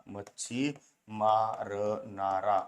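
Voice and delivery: मच्छी मारणारा drawn out slowly; slow syllable drill. Shown as a demonstration. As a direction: stretch मच्छी मारणारा for the class. (हळू, ताणून उच्चार)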